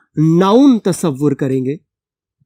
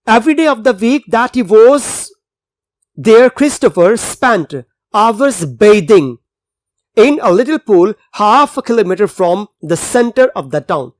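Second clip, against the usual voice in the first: slow, deliberate passage reading for students; slow reading aloud; much slower than usual. Acted. Teacher reading the English passage to the class, slow and clear. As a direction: read the text slowly so the class can follow.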